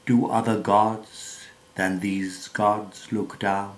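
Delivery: measured, declamatory verse reading with swells on key phrases; theatrical poetry reading, pausing between phrases; poem recitation. Acted. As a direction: recite it like stage verse, leaning into the stressed words.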